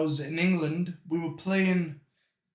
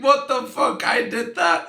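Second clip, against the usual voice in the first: high, loud incredulous questions; shocked disbelief; 5 semitones higher, 6 dB louder than usual. Retold or imitated. Hearing what he did as a toddler, shocked disbelief. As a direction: act out astonishment at your own past. Retells shock at dad's story.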